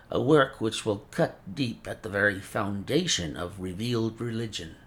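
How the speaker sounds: put-on a fussy old scholar with a mincing accent; mincing foreign accent. Old professor shows his work.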